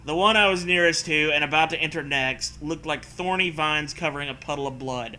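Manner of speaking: steady read-aloud narrator voice; story narration. Acted. Reads the story text aloud.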